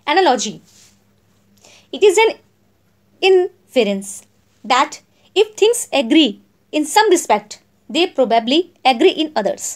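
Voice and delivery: each word spaced out for notes; slow, clear classroom dictation. Shown as a demonstration. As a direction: read it out slowly so students can write. Dictates definition slowly.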